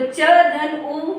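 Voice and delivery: slow spelling. Shown as a demonstration. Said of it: "तो ह में आ की मात्रा आई".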